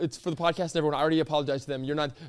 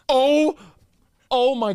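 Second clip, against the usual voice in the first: disgusted yelp; 8 semitones higher, 7 dB louder, much slower than usual. Real, not acted. Gagging reaction to smell.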